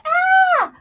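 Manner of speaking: sudden high yelp, half joking; mock alarmed yelp. Crafter startled at how fast the time went, mock yelp.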